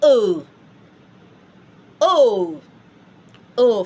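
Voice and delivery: French "O." as a rounded eu, held; drawn-out French vowel. Shown as a demonstration. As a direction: model the eu sound for learners, loud and isolated. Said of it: "So you say".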